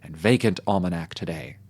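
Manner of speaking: orate like a pompous French patriot; a hint of a swelling revolutionary speech; mock French orator. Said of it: "A French speech is something like this".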